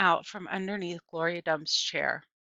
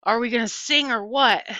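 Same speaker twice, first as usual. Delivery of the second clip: echoing; 4 semitones higher, 8 dB louder than usual. A narrator's reading. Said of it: "Stevie echoed".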